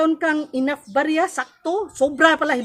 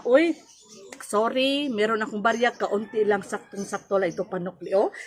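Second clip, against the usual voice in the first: soft, gentle apology to a customer; calm; 4 semitones lower, 4 dB quieter than usual. Shown as a demonstration. Store owner calmly telling a customer there is little change. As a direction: let it down kindly and quietly, softer as it goes. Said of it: "In a calm way".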